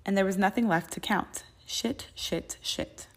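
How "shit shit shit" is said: muttered panic. A narrator's reading. Panicked curse under his breath.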